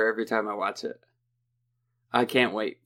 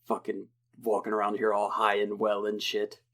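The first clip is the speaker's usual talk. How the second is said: mock muttered rant, softer; imitating the rant; 3 semitones lower, 4 dB quieter than usual. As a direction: grumble it like his usual rant. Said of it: "the rant that he does".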